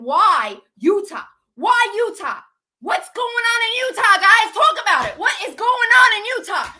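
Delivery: real heated outburst; agitated demand. Real, not acted. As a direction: demand answers loudly, worked up. Upset speaker demanding public answers.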